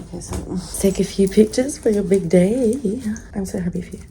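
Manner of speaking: put-on British accent; English accent impression. Stylist to client before her big day, English accent. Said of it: "that very English accent like this".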